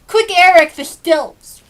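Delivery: loud high eager call; shout. Acted. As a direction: yell for the stilts, impatient to play. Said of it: "he'd shout".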